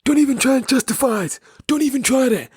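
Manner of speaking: very high falsetto mimicry; imitating taxi-rank guy. Retelling a well-dressed guy at the taxi rank arguing, high-pitched imitation. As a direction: squeak it out as a mock scolding. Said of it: "he said that".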